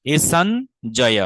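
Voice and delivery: এ সঞ্জয় drawn out very slowly; very slow split. Shown as a demonstration. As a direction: stretch এ সঞ্জয় syllable by syllable. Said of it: "সঞ্জয়কে আলাদা করে ভেঙেও লেখে".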